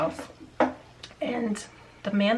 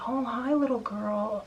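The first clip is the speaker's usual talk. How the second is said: slow, higher, weird leering greeting; lightly acted perverted drawl; imitated creepy neighbor; 4 semitones higher, slower than usual. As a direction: mimic a creepy man talking to a child. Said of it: "he was saying it very pervert".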